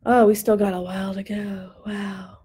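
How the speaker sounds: ordinary delivery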